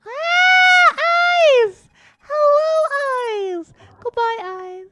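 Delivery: high, loud startled cry easing off; startled yelp. Real, not acted. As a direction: yelp in surprise, then settle as you greet it. Startled by eyes in the game.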